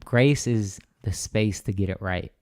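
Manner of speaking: slow, deliberate quote of the bishop; savoured slow quote; slow quoted saying. Retold or imitated. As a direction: lay each word down slowly like a quoted maxim. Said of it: "Bishop T D Jakes said this".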